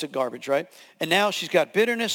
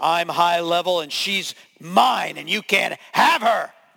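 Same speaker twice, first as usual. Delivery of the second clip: speaking in a man's voice; 4 dB louder than usual. Retelling what the thing said while he held her pinned down, in a male voice. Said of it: "I'm in a male voice".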